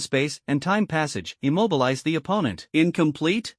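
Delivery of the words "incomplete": rising, doubting question; suspicious question. Acted. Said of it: "looked at Master with suspicion".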